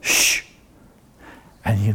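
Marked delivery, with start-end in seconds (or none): 0.0-0.4 shushing. Retold or imitated. Mother hushing giggling Jean.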